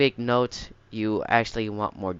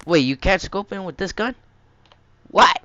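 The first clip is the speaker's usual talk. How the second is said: surprised; 9 semitones higher, 8 dB louder than usual. Real, not acted. Finds the gun cannot scope.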